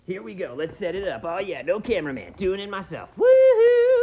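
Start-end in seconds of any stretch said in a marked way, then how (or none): 3.2-4.0 high, loud woohoo; excited whoop. Acted. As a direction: cheer yourself on wildly. Cheering alone on stage.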